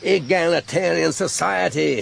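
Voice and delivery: mocking Marlborough drawl; lightly mimicked Marlborough accent. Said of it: "he drawled in his best Marlborough accent".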